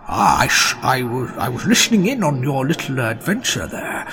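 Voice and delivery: lightly voiced chatty dragon, hesitant; little ghost dragon. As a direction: talk like a small dragon, halting and conversational. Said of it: "he talks to you, he says".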